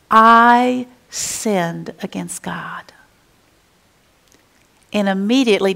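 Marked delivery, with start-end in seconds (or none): 0.1-2.8 David humbly whispering his confession to Nathan; slow whispered confession. Acted.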